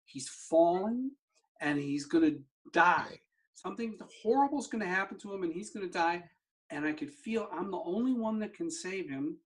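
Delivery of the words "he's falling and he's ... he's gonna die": retold panicked screaming. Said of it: "I'm screaming".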